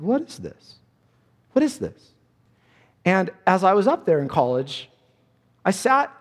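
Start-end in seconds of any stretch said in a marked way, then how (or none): 0.0-2.1 high, bewildered what is this; mock amazed asking; puzzled question. Church reading Romans nine, asking puzzled. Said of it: "and they said".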